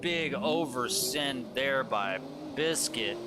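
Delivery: energetic live race commentator voice; play-by-play commentary. Acted. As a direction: call the drift battle as it happens.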